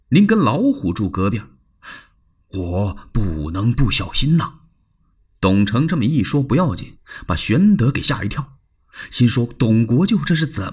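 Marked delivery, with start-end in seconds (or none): 0.1-4.6 cautious Dong Cheng. Acted. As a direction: plead for caution. Dong Cheng voiced in story. (小心翼翼地解释)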